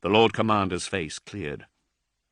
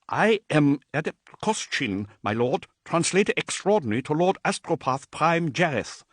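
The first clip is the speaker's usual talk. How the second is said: a hint of a higher, timid messenger; lightly voiced nervous adept; 7 semitones higher than usual. Terrified adept addressing Dante, lightly higher and timid. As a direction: introduce yourself with nervous awe.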